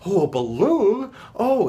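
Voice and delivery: rising, brightening surprise, mildly voiced; excited. Eeyore perking up at Piglet's balloon present, mildly excited. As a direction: let the sad donkey perk up at the gift. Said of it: "he gets excited and excited".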